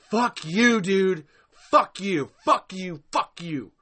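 loud, punched curses, easing off by the last; angry cursing. Real, not acted. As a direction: hurl repeated curses at someone absent. Ranting angrily at absent Glenn.

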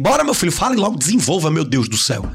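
exasperated hurry-up voice; impatient urging. Retold or imitated. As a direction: rush them like you have no time. Impatient choleric urging a slow speaker.

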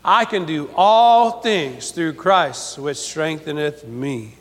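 slow unison repeat of the verse; slow call and response. Shown as a demonstration. Congregation repeats the verse slowly after the preacher. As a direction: say it along with the crowd, slowly. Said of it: "Say that with me".

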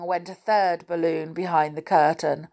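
plain reading voice

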